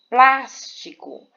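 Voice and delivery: plástico slow, PLÁS high and loud; stress on antepenultimate syllable. Shown as a demonstration. Teacher giving a proparoxytone example, plástico with loud stretched PLÁS. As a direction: punch PLÁS in plástico and let ti-co fall away. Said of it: "plas é a sílaba mais forte".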